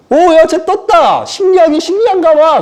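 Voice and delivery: gawk in wonder at the floating man; onlooking angels, astonished and delighted; amazed angels. Acted. Angels marvelling at floating Peter.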